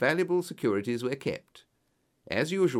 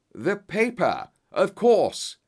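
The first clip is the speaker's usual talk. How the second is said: high, loud burst of realisation; excited yell; 8 semitones higher, 6 dB louder, slower than usual. A narrator's reading. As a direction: yell it as a sudden discovery. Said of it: "yelled Holmes".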